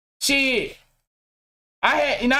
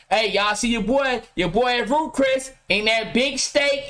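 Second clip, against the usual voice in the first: mock picture bragger; 3 semitones lower than usual. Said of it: "that's the time he took a picture".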